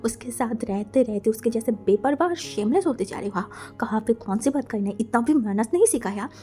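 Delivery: a mother's angry rebuke; angry scolding. Acted. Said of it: "चिल्ला के wing की तरफ देखा". (गुस्से में डांटती माँ)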